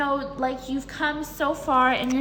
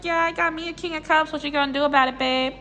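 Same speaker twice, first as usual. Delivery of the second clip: playful mock-smug boast; 3 semitones higher, faster than usual. Card figure bragging about her new lover, smug. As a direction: brag it lightly, as a taunt. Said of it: "Look at this smug little bitch".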